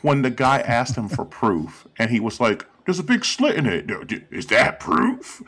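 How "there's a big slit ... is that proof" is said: mock a weak defence; retold reply, pitched up and faltering; imitating a flustered answer. Imitating Trump's reply about proof.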